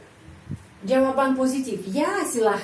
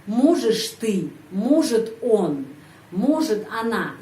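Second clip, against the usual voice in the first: careful model pronunciation; slower than usual. Shown as a demonstration. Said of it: "di sana udah ada perubahan ya".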